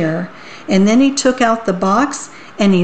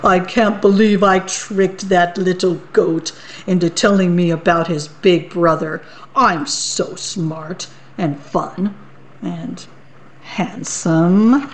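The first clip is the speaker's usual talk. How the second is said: smug troll. Acted. Troll chuckling to himself about his trick. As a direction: gloat to yourself under the bridge. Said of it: "chuckled to himself".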